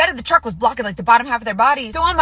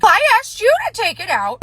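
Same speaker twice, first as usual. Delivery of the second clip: high-pitched mock holler; fussing wife; 8 semitones higher than usual. Wife snapping back at husband about trash, mock fussing. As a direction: imitate an exasperated wife, voice pitched up. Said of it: "hollering, fussing at this fella".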